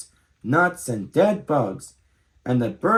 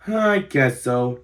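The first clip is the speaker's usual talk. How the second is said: sighing; slower than usual. Acted. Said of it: "the little possum sighed".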